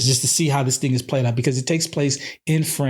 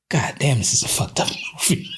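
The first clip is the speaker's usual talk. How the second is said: hushed disbelief; faster than usual. Retold or imitated. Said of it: "You're just like".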